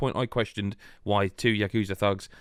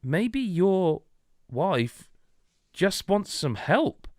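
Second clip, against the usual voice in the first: gentle nanny; 8 semitones higher, much slower than usual. Retold or imitated. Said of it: "she sort of says".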